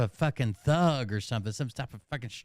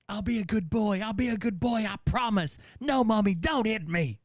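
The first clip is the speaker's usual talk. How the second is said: put-on pleading child; 5 semitones higher than usual.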